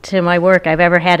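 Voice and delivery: laughing as she starts to speak. Real, not acted. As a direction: let the amusement spill into the words. Author amused by the host's intro.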